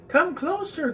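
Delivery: husky voice. Acted. The wolf in bed calls the girl closer, high and husky. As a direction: lure her in like a sly wolf. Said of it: "said the husky voice".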